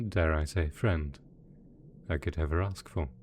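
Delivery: tender reassurance. Acted. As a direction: reassure them affectionately, keeping the voice down. Villain tenderly praises dear assistant.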